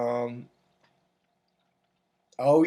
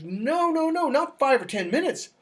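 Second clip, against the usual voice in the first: insistent vet; 8 semitones higher than usual. Retold or imitated. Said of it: "He goes".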